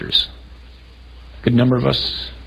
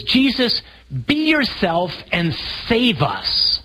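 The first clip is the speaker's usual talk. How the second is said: slow pleading prayer; 6 semitones higher, slower than usual. Acted. Voicing the disciples' plea.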